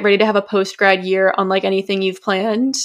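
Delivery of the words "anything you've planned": "planned" drawn out for emphasis; slow down to lean on the word "planned"; stress on planned. Real, not acted. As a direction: land deliberately on "planned" at the end. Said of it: "Emphasis on planned".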